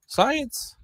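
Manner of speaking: high, goofy exclaimed Science; mock triumphant. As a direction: proclaim it like a game-show win. Mock triumph after measuring.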